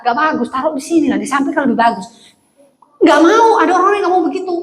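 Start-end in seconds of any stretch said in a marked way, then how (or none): 0.0-2.3 lightly acted Batak directness; to-the-point Batak-style reply; blunt Batak speaker. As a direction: say it straight out, no hedging. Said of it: "beda kalau orang Batak".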